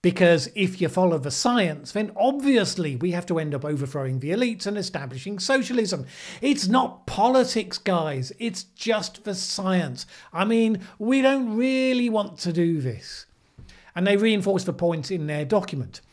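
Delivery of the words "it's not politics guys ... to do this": sarcastic, higher and slowed, mock earnest; mock sincere activist. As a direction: play the earnest activist you are mocking.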